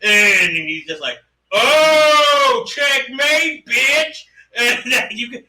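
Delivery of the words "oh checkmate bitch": high, smug mock taunt; mock gloating. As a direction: rub the win in her face. Husband gloats at final line.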